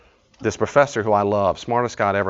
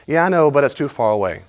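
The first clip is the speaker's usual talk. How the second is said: louder, higher put-upon excuse; whiny excuse; 5 semitones higher, 5 dB louder than usual. Retold or imitated. Woman dodging a friend's gym advice, whiny. Acting yes-but excuse game.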